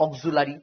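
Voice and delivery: "অক্সিলারি" said as "og-zu-la-ri"; common pronunciation. Shown as a demonstration. Teacher showing students the habitual saying, "অক্সিলারি" as og-zu-la-ri. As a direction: say "অক্সিলারি" with a zu and plain la-ri. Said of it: "উচ্চারণ কি করবো?".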